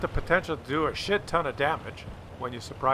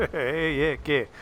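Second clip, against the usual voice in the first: put-on Swedish accent. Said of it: "I like the Swedish, uh, commander voice".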